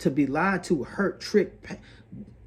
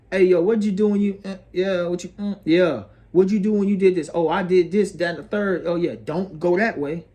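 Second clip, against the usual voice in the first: casual mock dialogue; 3 semitones higher, 5 dB louder than usual. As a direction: play out an eager question and answer. Acts out a casual exchange.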